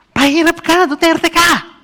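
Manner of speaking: high, loud mock yell at Duterte; angry vendor shouting. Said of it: "Galit na galit talaga siya". (pasigaw na galit na tindera)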